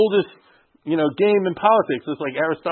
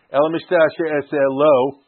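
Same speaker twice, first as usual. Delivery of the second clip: El Mishteh Asher Es Lo read slowly, leaning on Mishteh; slow pointed reading; 2 semitones lower, slower than usual. Shown as a demonstration. Teacher points students to the singular in the verse. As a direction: read it slowly, each word weighed. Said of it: "Notice the singular verb".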